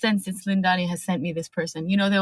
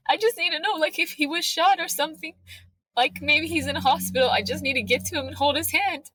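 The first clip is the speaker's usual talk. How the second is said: panicked pleading; 6 semitones higher than usual. Retold or imitated. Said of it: "I get to Ashley and I'm like".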